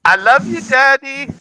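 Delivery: high-pitched imitation of a little kid calling out; little child's voice. Audience member imitates little kid calling to dad on stage, high child's voice. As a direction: mimic a small kid shouting, high and loud. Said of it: "you just heard this little voice go".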